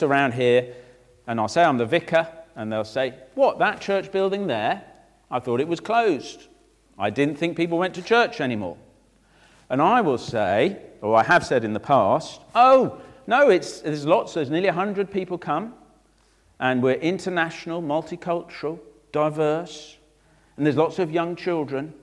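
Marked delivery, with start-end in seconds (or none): 3.3-8.8 mildly surprised, higher-pitched query; lightly acted disbelief; incredulous passer-by. Passer-by reacts to the vicar. 12.5-21.9 proudly correcting a doubter; boastful protest. Retold or imitated. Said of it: "talking by the standards of the world".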